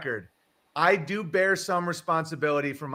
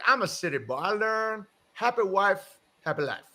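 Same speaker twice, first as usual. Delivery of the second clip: put-on good old boy Southern; 6 semitones higher than usual. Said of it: "a good old boy".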